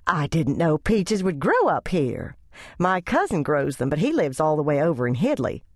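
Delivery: a hint of a gossipy visitor; visiting lady chatting about peaches, lightly voiced; chatty church lady.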